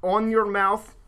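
broken Russian man, deliberate mock accent; sad Russian accent. Host reading a survivor's account as asked, sad Russian accent. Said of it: "say it like a sad, broken Russian man".

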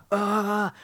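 high mock wail of panic; panicked cry. Host voices the trapped man panicking, mock wail. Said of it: "You start panicking at this point".

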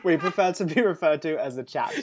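laughing mock correction. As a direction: say it through laughter. Mocking society voice, laughing.

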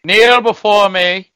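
slow, loud and high evil command; cold rasping evil emperor. Pretend. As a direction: bark it like a tyrant on a throne. Acting the on-screen emperor.

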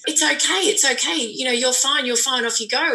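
dismissive comforting. Retold or imitated. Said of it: "someone just to say".

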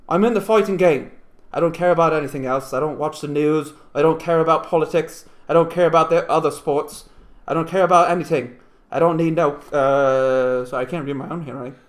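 put-on slipping into an Australian accent; unintended Australian accent; accidental Australian. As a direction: read it with a drifting Australian twang. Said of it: "I went Australian there".

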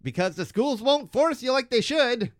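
lightly voiced churchy neighbor scolding; Ned impression. Cohost attempts Ned scolding Bart, lightly voiced. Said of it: "That was Ned?".

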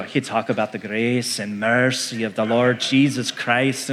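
preacher's imitation of a Scottish accent; imitated Alistair Begg accent. Preacher mimicking a favorite teacher on grace, imitated Scottish accent. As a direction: put on a Scottish-accented sermon voice. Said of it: "anything with an accent like that".

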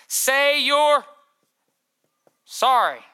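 mocking stern religion; mock preachy command. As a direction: sneer it as a religious order.

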